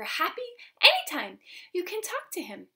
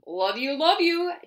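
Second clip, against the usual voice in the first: a mild grumble from daddy bear; lightly grumbled, rising louder; grumbling daddy; 4 semitones higher, 9 dB louder than usual. A narrator's reading. Daddy bear grumbling goodnight, mild grumble. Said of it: "Daddy grumbled".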